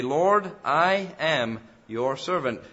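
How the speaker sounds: slow, weighted "I am your servant"; emphatic declaration. Acted. Preacher voices the psalmist's vow to the Lord, emphatically. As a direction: spell out "I am" slowly and firmly. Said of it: "but for emphasis' sake".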